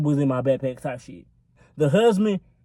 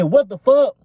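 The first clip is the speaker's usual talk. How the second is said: higher, louder burst of disbelief; retold startled reaction; 6 semitones higher, 5 dB louder than usual. Reacting to a gunshot while on the phone, startled. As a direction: jump at the sudden noise.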